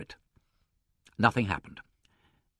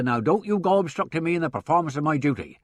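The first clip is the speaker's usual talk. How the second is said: higher, pompous inspector's warning; officious policeman; 6 semitones higher, 4 dB louder than usual. A narrator's reading. Inspector warning an obstructing secretary, officious. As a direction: lay down the law officiously.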